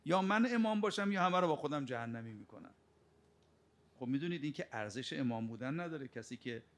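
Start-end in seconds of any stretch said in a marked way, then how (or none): 0.0-2.7 Satan's defiant boast. Retold or imitated. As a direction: throw out the threat like a proud devil.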